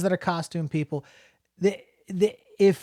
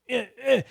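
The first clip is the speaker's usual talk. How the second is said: short, higher grunts of effort; mimed old-man grunts; 7 semitones higher than usual. Retold or imitated. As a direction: mimic an old man straining to stomp. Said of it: "just looked like an, an old man".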